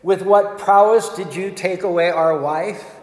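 shouting. Acted. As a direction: call out a challenge to fight. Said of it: "Arjuna shouted".

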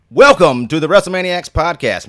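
loud hype-man announcement; big announcer welcome. Acted. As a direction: shout it like a show host.

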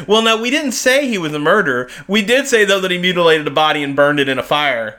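a hint of a smug prosecutor explaining away; press conference dodge. Mimicking the prosecutor at a press conference, lightly mocking. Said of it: "he's just like".

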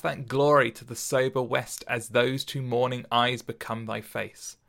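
slow, measured reading of a sonnet; poetry recitation. Acted. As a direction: recite it like verse, unhurried. Reads a Shakespeare sonnet aloud.

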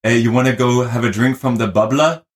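twin sister's Wisconsin speech, imitated; Wisconsin accent. Imitating twin sister offering a drink, Wisconsin accent. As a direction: ask it like a Wisconsinite. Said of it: "some of those Wisconsin words".

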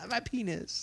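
long high wail, then trailing off weakly; drawn-out, hammed-up death cry; mock dying wail. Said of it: "he takes forever to die".

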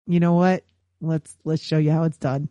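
a hint of a cool, low-voiced studio executive; confident studio boss. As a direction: say it low, ready to show them up. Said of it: "Toho's gotta be like".

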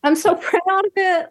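high, teary voice breaking into a laugh; fighting back happy tears; choked up. Real, not acted. Guest on podcast overcome with pride, teary and laughing. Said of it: "I'm gonna cry again".

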